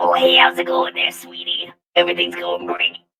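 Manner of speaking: doting, sweet, motherly tone laid on thick. Describing how a new character sounds: sweet motherly voice. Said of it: "Kinda, kinda voice".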